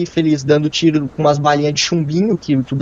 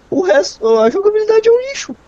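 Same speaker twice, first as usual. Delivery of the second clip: excited. Real, not acted. Heated game debate rant.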